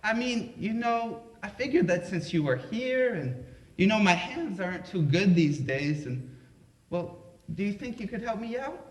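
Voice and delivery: lightly voiced sweet Southern grandma asking a favour. Grandma asking grandson to help, mild sweet voice. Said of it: "sweet little Southern Baptist voice".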